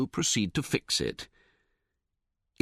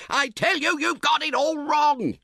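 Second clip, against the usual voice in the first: roaring; 3 dB louder than usual. A narrator's reading. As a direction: roar him down. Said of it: "you roar".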